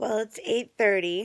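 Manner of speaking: rough, scratchy voice. Talking to listeners and noting the time, in a scratchy voice. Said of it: "did you hear my scratchy voice there?".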